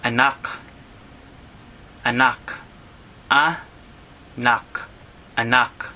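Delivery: "anak" as ah-NAHK, short final k; Tagalog word for child. Shown as a demonstration. Teacher pronouncing "anak" for learners. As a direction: repeat "anak" clearly. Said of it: "you can call them".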